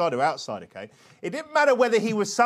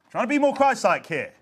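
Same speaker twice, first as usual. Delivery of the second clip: higher, emphatic declaration; raised repeat; 4 semitones higher than usual. Real, not acted. Preacher explaining why they shout, now high and emphatic. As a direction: lift it up and call it out.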